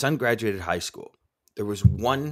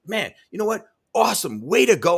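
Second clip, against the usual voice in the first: enthusiastic cheer; 9 semitones higher, 4 dB louder than usual. Retold or imitated. Cheering on young truck driver.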